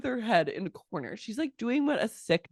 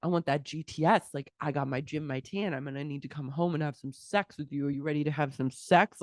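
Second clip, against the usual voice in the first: low, softer mock phone flirt; retold flirting; 3 semitones lower, 4 dB quieter than usual. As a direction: imitate a man flirting down the phone, quietly. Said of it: "is, like, flirting with her".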